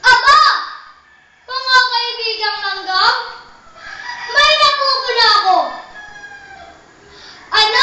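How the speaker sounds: lightly voiced carefree grasshopper, teasing; cheeky question to the busy ants; curious grasshopper.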